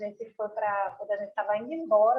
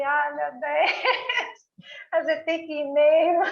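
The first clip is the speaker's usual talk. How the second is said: laughing; 5 semitones higher, 4 dB louder than usual. Retold or imitated. Quoting, laughing.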